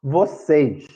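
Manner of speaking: "Vocês" with weight on "cês"; teacher demonstrating the stressed ending of "Vocês"; stress on last syllable. Shown as a demonstration. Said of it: "a sílaba seis é a mais forte".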